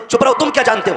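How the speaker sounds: high, loud rude shout; son yelling at father. Retold or imitated. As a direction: shut the father up with a yell. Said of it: "बाप अगर बोल दे". (बाप पर चिल्लाता बेटा)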